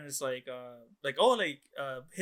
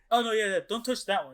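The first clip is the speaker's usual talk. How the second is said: higher voice, breaking into a laugh; laughing mock caution; retold casual warning; 6 semitones higher, 4 dB louder than usual. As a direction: lightly imitate a quick warning, amused. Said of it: "And then he goes".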